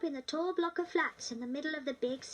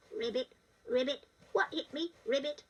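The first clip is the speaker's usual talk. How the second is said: frog voice; 2 semitones lower than usual. Acted. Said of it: "talking like a little boy".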